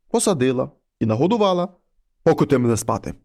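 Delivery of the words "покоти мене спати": low, heavy voice of a wolf head at the door; low monster head voice. Acted. Wolf head knocks and calls the girl, low and heavy. Head asks to be put to bed.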